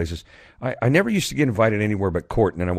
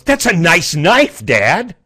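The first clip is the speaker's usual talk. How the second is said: put-on high, loud, slow child's praise; kid voice; 10 semitones higher, 10 dB louder, much slower than usual. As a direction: draw it out like an admiring boy.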